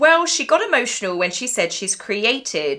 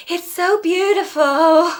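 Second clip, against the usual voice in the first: put-on child's rehearsed line; 7 semitones higher, 4 dB louder, slower than usual.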